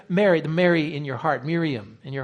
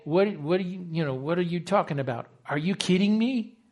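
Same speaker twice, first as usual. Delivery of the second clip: exasperated. Retold or imitated. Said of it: "he's exasperated".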